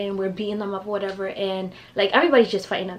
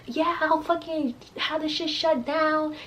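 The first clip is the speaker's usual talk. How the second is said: imitating her friend; 8 semitones higher, 4 dB quieter, slower than usual. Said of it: "my friends over there like".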